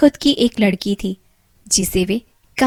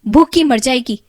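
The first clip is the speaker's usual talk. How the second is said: angrily; 4 semitones higher, 5 dB louder than usual. Acted. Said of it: "बड़े गुस्से में".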